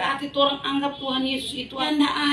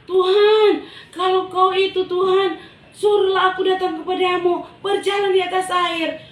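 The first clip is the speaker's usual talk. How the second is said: higher and louder, calling across the water; bold call out; 8 semitones higher, 5 dB louder than usual. Acted. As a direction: shout a dare to the Lord. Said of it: "Petrus itu bilang".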